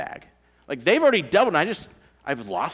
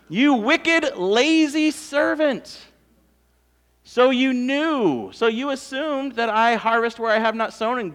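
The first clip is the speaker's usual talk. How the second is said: stern rebuke; 6 semitones higher, 6 dB louder than usual. Acted. Master rebuking his lazy servant, loud and stern.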